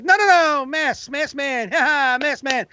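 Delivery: high, anxious laughing correction; a dad covering for his kid with forced laughter; nervous father. Retold or imitated. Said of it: "And like".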